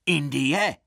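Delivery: one-word challenge, sprung out of nowhere; spring the word on them, loudly; sudden loud call. A narrator's reading. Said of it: "vybafl silným hlasem".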